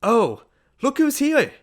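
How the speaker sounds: high, loud, drawn-out squeal; screaming greeting. A narrator's reading. Party hostess spots Ned arriving, screaming in delight. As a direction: shriek with delight at a guest. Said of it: "she began to scream".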